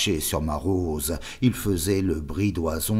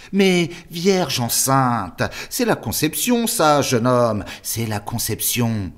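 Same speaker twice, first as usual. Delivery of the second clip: much higher, louder, shrieking "Vierge enceinte"; indignant outburst; 8 semitones higher, 6 dB louder than usual. Acted. The superior lecturing the boy on the conception, outraged. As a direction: scold him in shocked indignation.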